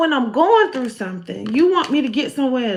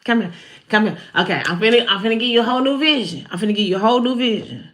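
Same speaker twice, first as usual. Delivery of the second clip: voicing God; faster than usual. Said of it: "God said".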